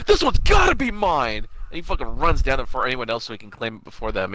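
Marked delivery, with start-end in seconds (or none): 0.1-1.5 high, loud, drawn-out mock cry; imitating JP. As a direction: claim it like an overexcited cartoon hero. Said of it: "J P finally gets his little spirit".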